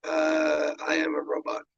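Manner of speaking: high, stiff robot voice. Shown as a demonstration. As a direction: speak like a robot, flat and mechanical. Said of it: "every time I talk, it's fucking robotic".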